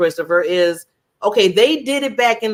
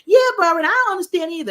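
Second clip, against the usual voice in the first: much higher, whiny agreeing voice; mocking a complainer; 11 semitones higher, 5 dB louder, much faster than usual. Mocking a friend joining the complaining, high whiny agreement. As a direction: play a fellow moaner chiming in. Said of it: "somebody coming in".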